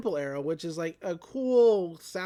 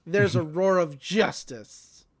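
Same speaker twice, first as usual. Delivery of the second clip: hero catchphrase; 6 dB louder than usual. Retold or imitated. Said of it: "the line that I suppose".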